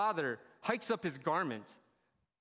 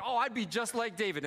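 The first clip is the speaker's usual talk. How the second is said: higher-pitched, over-keen claim; mock eager boasting; 5 semitones higher, 3 dB louder than usual. Worshippers talking themselves up about David, mock eager boasting. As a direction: play a confident, eager worshipper lightly.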